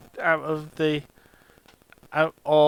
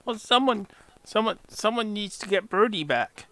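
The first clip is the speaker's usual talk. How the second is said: higher pleading goblin voice; 5 semitones higher than usual. Acted.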